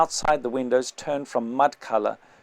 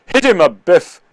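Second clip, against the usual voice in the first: much louder, higher gruff call; rough urging; 5 semitones higher, 13 dB louder than usual. Acted. The big man urging a punch, loud and rough. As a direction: egg on the violence.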